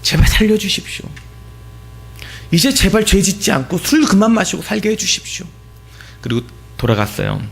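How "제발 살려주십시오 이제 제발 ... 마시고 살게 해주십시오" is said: earnest prayer. Retold or imitated. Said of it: "간절히 배에 손을 얹고 기도했습니다".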